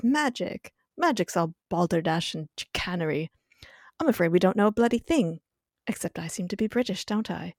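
put-on playful British accent, fussy and dismissive; British Giles impression. Podcaster recapping Giles with amnesia, in a British accent. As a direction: do a bookish Englishman in a British accent. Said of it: "I love these impressions".

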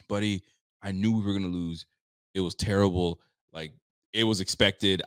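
calm, resigned imitation of a sensible fan; Kevin. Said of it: "They're not calm. Kevin".

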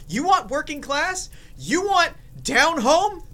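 high, slow hype-man call; hyped pitch. Acted. Vlogger hyping viewers about the seltzer, high and drawn out. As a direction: sell the drink like a ringmaster.

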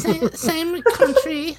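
put-on slow laughing Vietnamese accent; bad put-on Vietnamese accent. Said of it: "he has a really bad Vietnamese accent".

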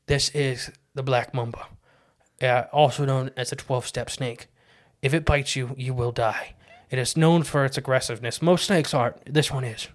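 calm, hushed nature-show narration, lightly imitated; Steve Irwin impression. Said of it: "he would just be like".

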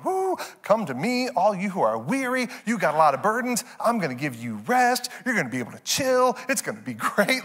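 hyped-up, high pitched Jesus paraphrase; a light mock pep-talk voice for the verse; psyched. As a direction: sell it like good news, breezy and cheerful. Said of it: "We're psyched when we read".

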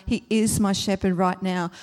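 "is" pushed out firmly; stress on IS. Shown as a demonstration. Dismissing past and tomorrow, stress on "is". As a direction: punch "is" and carry on evenly. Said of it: "It's present tense".

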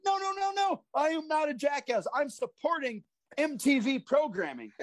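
high-pitched indignant protest; imitating his own wounded outrage; mock indignation. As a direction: insist hotly, retelling your annoyance. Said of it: "I would get so mad".

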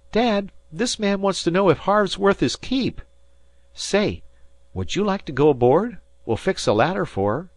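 put-on high, loud boy's call. A narrator's reading. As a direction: holler over to Dad. Dan calls to his father.

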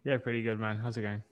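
low, soft, laid-back reply; too-cool casual murmur; trying to sound cool. Real, not acted. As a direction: play it cool, voice dropped. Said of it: "Are you trying to sound cool".

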